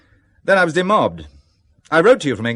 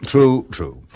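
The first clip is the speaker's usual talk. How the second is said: sheepish admission; 2 semitones lower, 6 dB louder than usual. Acted. Caught drinking, admits it.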